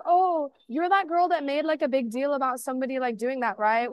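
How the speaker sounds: mock the girl who shamed her; a hint of a snide classmate; judgy girl. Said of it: "She's like".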